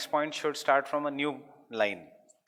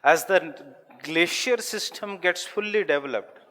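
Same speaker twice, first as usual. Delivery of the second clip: loud, higher classroom dictation; raised teacher's voice, dictating; dictating loudly; 6 semitones higher, 9 dB louder than usual. Real, not acted. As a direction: call it out to the whole class. Teacher dictates new sentence to class.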